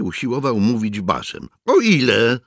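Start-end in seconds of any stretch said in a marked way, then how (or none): 1.7-2.4 put-on raised, louder boy's question; high boyish voice. A narrator's reading. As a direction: ask it in a youth's higher pitch. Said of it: "Miał wysoki chłopięcy głos". (wysoki chłopięcy głos)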